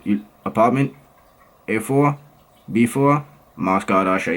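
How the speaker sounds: low-pitched mock Russian accent. Vlogger playing a Moscow local in conversation, Russian accent. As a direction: drop your voice and imitate a Russian accent. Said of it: "this is Moscow. Ready?".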